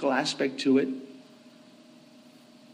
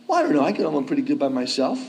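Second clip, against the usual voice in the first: mock self-reliant objector; 4 dB louder, faster than usual. Preacher voicing a proud objector to Jesus' words, mock self-reliant. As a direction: imitate someone brushing off the need for help.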